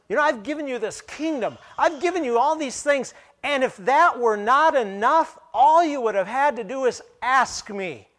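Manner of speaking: loud, high, forceful rebuke; booming voice of God. Acted. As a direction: thunder it as God speaking.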